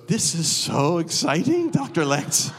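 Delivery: slow, drawn-out mock thrill; lightly acted delighted awe; imitated excitement. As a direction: play a pastor thrilled by something strange. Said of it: "Lizette goes".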